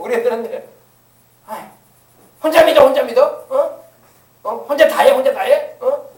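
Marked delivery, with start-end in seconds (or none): 1.5-6.1 mock sneering elder.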